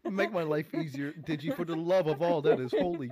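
exasperated, insistent plea; begging. Pretend. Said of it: "I beg of you".

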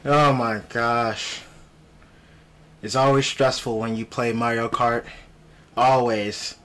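talking around a retainer; wearing a retainer. Real, not acted. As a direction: speak with a retainer in. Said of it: "I have my retainer in my mouth".

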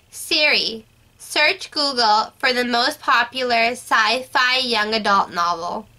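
slow, careful command to a phone; talking to voice assistant. Real, not acted. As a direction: say it slowly for Siri. Giving Siri a voice command.

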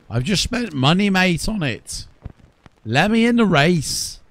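loud, high, fed-up protest at the game; frustrated shout. Real, not acted. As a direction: demand to be let in, raising your voice. Game won't let him race.

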